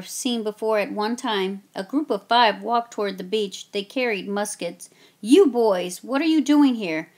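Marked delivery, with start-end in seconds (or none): 5.2-7.1 redcoat calling out. Acted. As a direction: hail the boys from the shore. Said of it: "a tall redcoat called".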